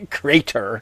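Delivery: "Crater" said in a New England accent, "kray-tuh". Shown as a demonstration. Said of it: "my New England accent".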